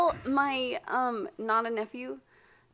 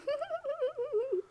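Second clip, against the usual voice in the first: imitated reaction; 6 dB quieter than usual. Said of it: "laying on the bed going".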